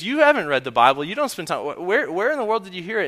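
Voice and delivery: high, quick, disbelieving questions; mock-bewildered protest rising in pitch; acted incredulity. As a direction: play a flabbergasted dad firing questions. Acted dad questioning daughter.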